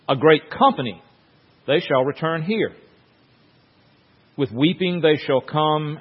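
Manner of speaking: measured, solemn reading of scripture. Acted. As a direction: read it like a psalm from the pulpit.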